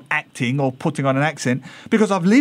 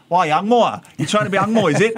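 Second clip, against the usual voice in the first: lightly imitated Singaporean accuser, a bit louder; mock Singlish jibe; 2 semitones higher, 3 dB louder than usual. Local mocking a speaker of polished English, mimicked Singlish jibe.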